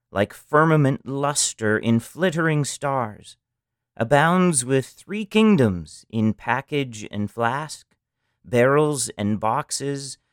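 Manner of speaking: rhythmic, lilting verse reading; reading a Victorian poetical shop directory aloud; poem recital. Acted. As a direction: roll through the old rhymes with relish. Reads an 1870s rhyming poem.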